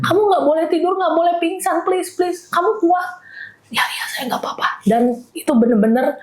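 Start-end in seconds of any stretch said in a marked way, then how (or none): 0.1-3.1 retold urgent plea. Wife begging husband not to faint, retold pleading. 3.7-4.8 soft, whispery reassurance; imitated weak reply. Injured husband reassuring his wife, imitated faint whisper.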